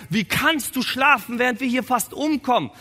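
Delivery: high-pitched, alarmed reproach; panicked disciples waking their master; acted mortal fear. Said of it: "die haben Todesangst".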